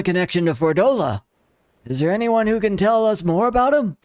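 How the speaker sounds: a hint of a grumpy old man. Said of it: "old man voice".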